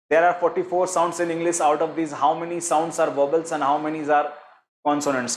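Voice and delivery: slow, deliberate reading of the answer options; measured quiz-question voice. Shown as a demonstration. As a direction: read each option out slowly for the class. Teacher reads quiz question aloud.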